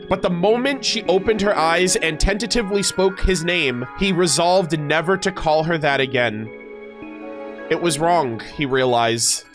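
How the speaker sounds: measured storyteller's read; lore narration. Acted. Streamer reading how he resolved never to call her that, story narration. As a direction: narrate it like a solemn backstory, phrase by phrase. Reads character lore aloud.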